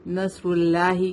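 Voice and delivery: نصر اللہ with thin l in اللہ; light lam. Shown as a demonstration. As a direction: show the wrongly light لام in نصر اللہ. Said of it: "light ہو جائے گا". (نصر اللہ میں ہلکا لام)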